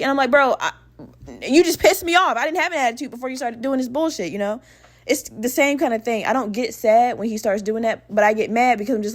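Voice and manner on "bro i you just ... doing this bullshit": higher-pitched annoyed protest, speeding up; irritated retort. Retold or imitated. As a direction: imitate snapping back in a petty argument. Acted quarrel about having an attitude.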